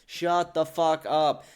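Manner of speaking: slow, drawn-out angry dismissal; exasperated order. Real, not acted. Answering the whiners he mocked, slow exasperation. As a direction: stretch each word in irritation.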